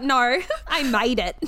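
slow, drawn-out mock Aussie line; imitating the accent. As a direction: stretch it out like a bad Australian impression. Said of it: "The way you said that".

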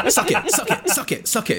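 taunting. Acted. Taunting the queue while cutting.

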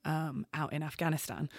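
real emotion catching in the throat; fighting back tears while retelling the loss; choked up. Real, not acted. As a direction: voice dropping to a near whisper, choked. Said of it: "I've become a bit choked".

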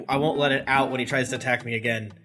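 talking through a mouthful of food; words round a bite of food; mouth full. Real, not acted. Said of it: "Don't talk with your mouth full".

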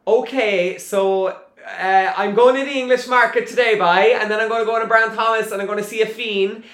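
lightly done put-on Cork accent; a hammy attempt at a Cork accent. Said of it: "give me your best Cork accent".

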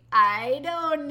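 slow, drawn-out innocent shrug; sheepish mischief. Retold or imitated. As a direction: play the little troublemaker. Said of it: "like Dennis the Menace".

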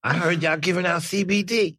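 squeaky bickering rat chorus. Acted. Pizza rat speaking.

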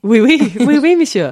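put-on high, loud playful French accent; hammed-up French, pitched well above normal; mock French accent. Co-host asked for a French accent, playful mock French. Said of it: "do your best French accent for us".

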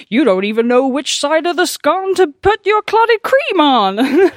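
loud, high mock Devon or Cornish farmer; hammed-up West Country banter, badly faked Devon accent. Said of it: "such a bad Devon accent".

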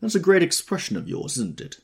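high, loud, sharp challenge. A narrator's reading. Tom challenging Gatsby over his expression, sharp. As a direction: start hard and high, challenge him. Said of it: "said Tom sharply".

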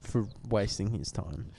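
tipsy mock-formal apology. Real, not acted. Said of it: "I'm pretty wasted".

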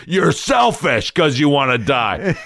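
high, slow scolding retort; mock accusing. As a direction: throw it back as an exaggerated accusation.

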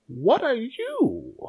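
put-on high, slow old scholar's question; old dean questioning. Old orc dean questioning stranger, slow high voice. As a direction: ask it like a suspicious old dean.

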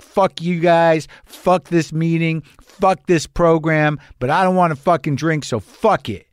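mock-defiant rant, each curse drawn out; retold anger. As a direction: replay a bitter share without shouting. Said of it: "I was angry when I shared in meetings".

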